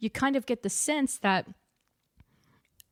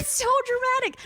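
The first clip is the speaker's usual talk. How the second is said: laughing. Real, not acted. Echoes friend, laughing high.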